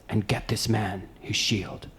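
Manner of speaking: Black Panther voice. Retold or imitated. Quoting Black Panther's movie line to a friend, slow regal command. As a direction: deliver it like a king giving an order slowly. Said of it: "it's Black Panther that says".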